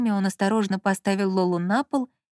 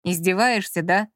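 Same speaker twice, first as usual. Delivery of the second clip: snapping. Acted. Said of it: "огрызнулся Маркиз".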